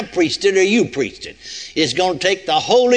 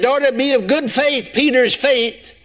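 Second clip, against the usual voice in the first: deliberate misquote; 6 semitones higher, 3 dB louder than usual. Shown as a demonstration. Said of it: "Oh, no, I missed that".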